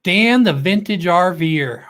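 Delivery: drawn-out welcome call; announcer call-out. Acted. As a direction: announce the channel like a host. Host calls out viewer's channel name.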